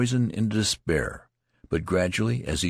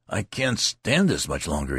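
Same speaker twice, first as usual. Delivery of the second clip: crying out. Acted. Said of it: "he cried".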